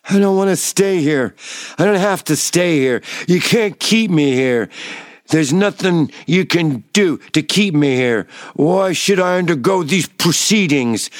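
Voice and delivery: high, slurred half-sung protest; slurring Sprechstimme. Retold or imitated. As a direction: slur it in heightened speech-song. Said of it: "a slurring Sprechstimme".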